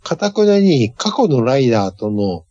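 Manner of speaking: usual speaking voice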